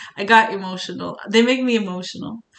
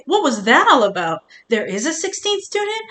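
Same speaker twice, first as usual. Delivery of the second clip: surprised disbelief; 4 semitones higher, 4 dB louder than usual. Real, not acted. Shocked at game reveal.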